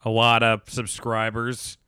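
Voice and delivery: low, grudging plug for someone else; resentful. Real, not acted. Host plugging guest's YouTube channel, resentful. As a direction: begrudge them the compliment, dragging it out at the end. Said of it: "I say that with resentment".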